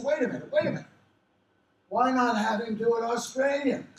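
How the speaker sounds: high, loud imitation of a brainwave; excited director. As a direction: break in urgently with a sudden idea. Acts director's sudden idea.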